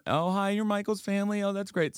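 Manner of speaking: mock gushing greeting. Celebrities greeting a friend's family, high mock gushing. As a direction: gush like celebrities meeting the relatives.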